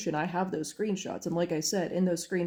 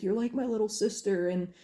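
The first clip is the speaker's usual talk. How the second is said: higher-pitched, lightly imitated tearful plea; a hint of put-on weepiness, pitched up; mock crying; 3 semitones higher than usual. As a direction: imitate someone pleading through tears, without real sobs. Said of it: "He was hyperventilating and crying and being like".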